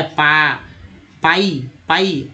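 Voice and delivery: पाई drawn out slowly, syllable by syllable; slow sounding out. Shown as a demonstration. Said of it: "पाइन होगा क्या?". (धीरे-धीरे खींचकर पाई बोलना)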